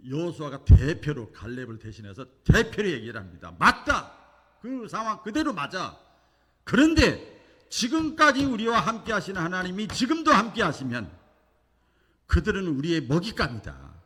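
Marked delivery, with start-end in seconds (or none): 3.6-13.9 higher, louder bold cry; rally the people, fearless; strong declaration. Retold or imitated. Joshua rallying the frightened Israelites, bold loud declaration. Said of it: "이렇게 강하게 외쳤던 사람이야".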